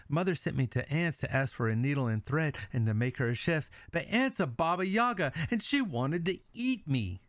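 put-on high, upset girl telling her father; frightened girl.

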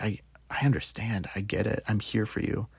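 soothing mom. Retold or imitated. Mom comforting heartbroken son.

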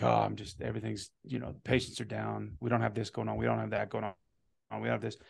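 half-muttered business-owner moaning; mock gloomy complaining. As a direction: sink into self-pitying grumbles. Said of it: "if I'm having a bad week in business".

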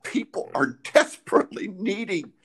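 fervent preaching with emphatic pauses; impassioned preaching. Real, not acted. Preaches people's need for prayer.

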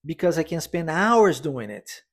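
hours lifted and stretched, slow and clear; stress on hours. Shown as a demonstration. Teacher modelling the sentence, stress on hours. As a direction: lean on hours, the rest lighter. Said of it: "a ênfase na palavra hours".

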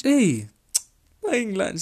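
pleasantly shocked outburst; amazed. Real, not acted. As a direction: exclaim it like it's unheard of. Amazed a girl buys lunch.

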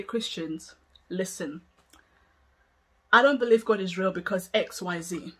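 even, reasonable disagreement; calm and respectful. Shown as a demonstration. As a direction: explain your view without any hostility. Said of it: "But if I were to say".

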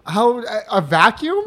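laughing. Real, not acted. Guessing game answer, laughing.

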